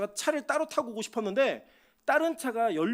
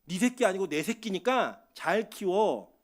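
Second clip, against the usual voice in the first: slow, deliberate charge to a parent; lightly voiced, unhurried entrusting command; God; 3 semitones lower, slower than usual. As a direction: hand over the children slowly and firmly. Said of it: "저한테 위탁하신 거예요".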